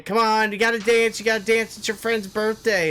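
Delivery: mock the pushy partygoer egging him on; imitating drunk woman. She urges him onto the dance floor, mock pushy coaxing. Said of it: "And saying".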